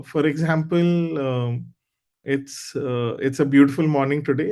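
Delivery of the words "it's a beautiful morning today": happy tone. Shown as a demonstration. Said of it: "in a happy tone only".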